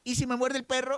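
put-on child's voice. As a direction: voice a kid with a worry. Joke's child answers the mother.

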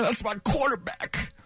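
mild impression. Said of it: "He's like Terrell Owens talking about Tony Romo".

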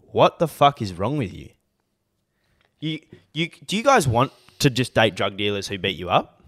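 worked-up rant; episode rant. Real, not acted. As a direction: launch into an exasperated rant. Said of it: "This is my rant for the episode".

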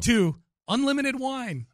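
drawn out with relish; slow and savoring. Real, not acted. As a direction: linger on it, delighted. Savoring the perk.

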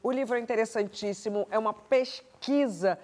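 slow, deliberate presenter read; measured closing plug, drawn out; host's book plug. Real, not acted. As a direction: linger on key words as you recommend a book.

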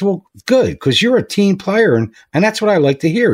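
a boss gently chewing out a late worker; stern boss. Retold or imitated.

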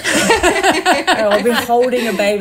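real laughter breaking through; giggling through it; laughing. Real, not acted. Laughing at her own story.

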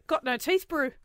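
whale voice. Retold or imitated. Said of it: "I end up sounding like the whale".

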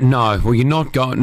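deadpan teasing no; mock refusal. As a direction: fake a refusal, then give in. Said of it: "No, I'm joking".

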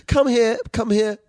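high, coaxing mock voice; imitated comforting partner. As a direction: coax lightly, as if offering a hug.

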